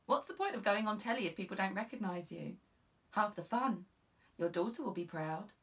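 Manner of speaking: lightly voiced eager junior officer; young constable, encouraging. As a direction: cheer her sergeant on. Constable urging her on.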